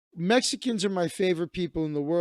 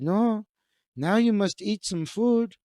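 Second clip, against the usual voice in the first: put-on light Mexican accent, insisting, higher; 5 semitones higher, 3 dB louder, slower than usual. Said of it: "likes my Mexican voice".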